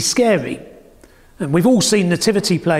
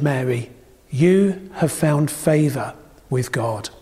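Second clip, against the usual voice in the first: scripture reading. Acted. Preacher reading Matthew to the congregation, measured and reverent. Reads the Bible passage aloud.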